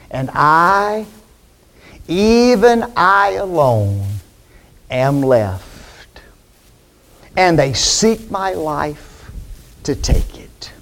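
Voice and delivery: slow, fading to a whisper; self-pitying hush. Acted. Elijah pitying himself before God, fading to whisper. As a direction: sink to a pitiful whisper. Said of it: "watch what he says".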